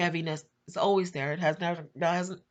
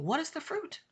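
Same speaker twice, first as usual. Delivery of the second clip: despairing plea; 14 semitones higher than usual. Retold or imitated. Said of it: "and I'm thinking".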